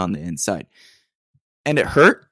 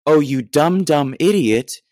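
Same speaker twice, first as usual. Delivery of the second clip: mock self-scolding; 5 semitones higher, 5 dB louder, slower than usual. Berating himself in retold thought.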